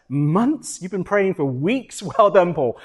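teasing mock disbelief, breaking into a laugh; amused mockery. The Lord teasing him about praying for months, laughing mockery. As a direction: imitate a laughing, sarcastic well done. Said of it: "just, like, laughing".

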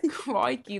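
a clumsy stab at a Scottish accent; failed Scottish accent. Shown as a demonstration. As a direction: try Scottish and miss it. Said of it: "that's not Scottish".

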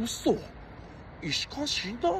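a light imitation of a brash TV host; Ishibashi Takaaki impression. A celebrity lightly mocking his death with a brash host voice. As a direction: toss it off like a careless celebrity. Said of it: "もう石橋貴明みたいな。".

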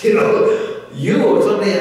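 high, loud exasperated rant; freaking out. Retold or imitated. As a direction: imitate Krishna berating a king, incredulous and forceful. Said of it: "Krishna's freaking out".

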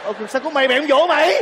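indignant scolding. Acted. Scolds son for not comforting her.

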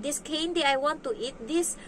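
a hint of a kid's drawn-out plea; imitated child. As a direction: lightly mimic a child explaining a wish. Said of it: "Kasi sabi niya".

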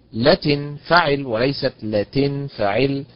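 لتنفعل said twice, stress shifting to the lam; slow it down and move the stress onto the lam in لتنفعل; stress on the right syllable. Shown as a demonstration. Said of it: "على حركة اللام". (نبر على حركة اللام)

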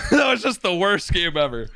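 laughing through the words. Real, not acted. Streamer laughing off a terrible game, laughing. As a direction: chuckle it out in disbelief.

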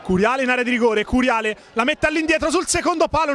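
excited play-by-play. Real, not acted. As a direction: race along with the attack. Fast counterattack, voice climbing.

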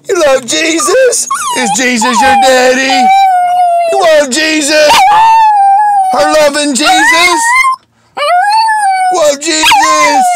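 rile the dog up with high-pitched questions; excited pet talk. Real, not acted. Excitedly talking to his dog.

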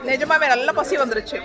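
speaking between bites; chewing while talking. Real, not acted. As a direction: mouth partly full of food. Seen 0: Chews after a bite at -1.0, fork of chicken in hand throughout.

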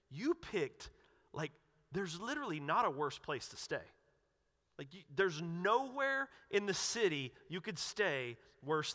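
rising, disbelieving questions, pitch climbing; incredulous crowd. Retold or imitated. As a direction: ask it in shocked disbelief. Shocked crowd questioning Jesus.

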